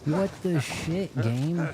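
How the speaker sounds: high, stretched out, rising in disbelief; slow shocked what at the game; baffled outcry. Real, not acted. Reacting to the game killing him, high and slow in disbelief.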